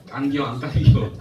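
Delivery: loud, slow Chungcheong accent with a laugh; Chungcheong dialect. Shown as a demonstration. Preacher shrinking the tongue twister for laughs, loud Chungcheong accent. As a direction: drawl it loudly in Chungcheong dialect. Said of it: "충청도 말".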